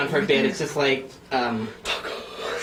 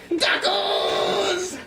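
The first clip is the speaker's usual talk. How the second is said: very high, shrill-free squeaky blob cry; blob creature voice. Acted. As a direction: shriek it like a silly little monster. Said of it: "And they have voices".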